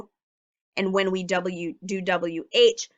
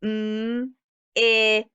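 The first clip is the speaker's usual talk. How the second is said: whispered spelling. Shown as a demonstration. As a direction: whisper M-I-T letter by letter. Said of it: "whispered spelling".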